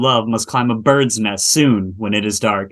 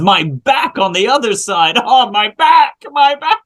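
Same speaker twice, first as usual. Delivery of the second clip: groaning back pain; 8 semitones higher than usual. Acted. Nurse moans of back.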